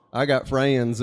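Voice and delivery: drawn-out Southern "friends" in three syllables; a kid's Southern twang, stretching "friends"; little hick Southern accent. Retold or imitated. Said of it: "saying friends with three syllables".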